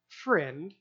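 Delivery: "Friend" with a questioning lift, gently reproving; soft, rising note of reproach; mild rebuke. Shown as a demonstration. Master answering a grumbling worker, mildly rebuking. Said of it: "like a mild term of rebuke".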